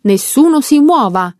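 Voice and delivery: freeze everyone with it; shouted order. Acted. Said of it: "e urlò".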